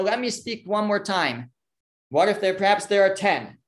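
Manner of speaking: mildly nervous. Acted. Avram asks God one last time, a little nervous. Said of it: "he's nervous".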